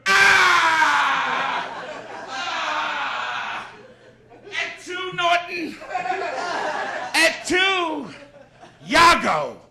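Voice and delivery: blustering comic mangling the tragedies; Jackie Gleason doing Shakespeare. Acted. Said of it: "Here is Jackie Gleason doing Shakespeare".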